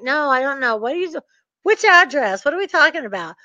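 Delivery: mock-innocent puzzlement; acting dumb. Sender messing with the bank's caller, acting dumb. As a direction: feign total ignorance of it all. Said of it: "so I act dumb".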